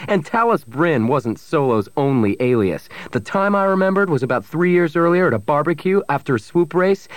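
heated accusation pitched high; shouting. A narrator's reading. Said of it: "Pavic kept shouting".

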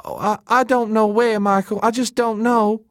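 very high, distressed woman's voice; on the verge of weeping. A narrator's reading. Elena recounts who left them, high and tearful. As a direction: lament it, close to tears. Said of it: "She suddenly started to weep".

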